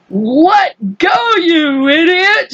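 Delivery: slow, crying angry yell; angry shout. Acted. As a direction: snap at the clumsy boy. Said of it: "shouted the centipede".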